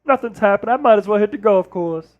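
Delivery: emphatic sportscaster caricature with stretched words; Charles Barkley. Acted. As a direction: grumble it as the ex-player analyst. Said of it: "That's the Charles Barkley".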